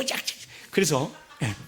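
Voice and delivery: usual speaking voice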